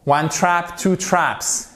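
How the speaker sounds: TRAPS ending in a crisp s; high ONE TRAP, then TWO TRAPS falling; model pronunciation. Shown as a demonstration. Teacher gives students an example, demonstrative pronunciation. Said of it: "for example".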